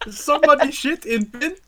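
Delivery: high, questioning put-on voice; cleaner's husband. Playing the husband hearing about work, high mock disbelief. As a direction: echo it back in a high, incredulous mock voice. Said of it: "Goes home and tells, like, her, her husband".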